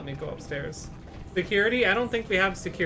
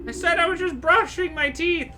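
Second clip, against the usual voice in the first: called out clearly, louder and higher; repeating louder; 12 semitones higher, 6 dB louder than usual. Acted. Doctor repeating himself to the visitor who misheard, louder. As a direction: repeat it plainly, raising the voice.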